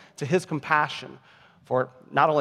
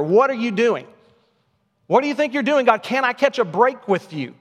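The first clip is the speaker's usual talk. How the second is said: much higher, pleading mock shout; shouting at God; 6 semitones higher than usual. Preacher voicing Jonah raging at God, mock shout. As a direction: cry out at God like a wounded man. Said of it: "It's like he's shouting out at God here".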